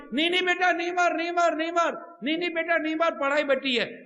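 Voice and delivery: hammed-up mother begging her son to stop; pleading mother. Preacher imitates mother begging son not to hit wife.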